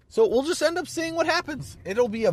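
hiccupping through the words; hiccups. Real, not acted. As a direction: voice jumps up with a hiccup. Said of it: "I got the hiccups".

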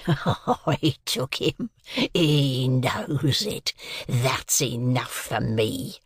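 very slow, savouring each word; gloating convict. A narrator's reading. Convict savouring his revenge, very slow gloating. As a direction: drawl out the gloat.

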